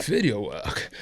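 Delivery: lightly imitated British accent; a hint of mock British, as a question; Sean Connery. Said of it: "that's still Sean Connery".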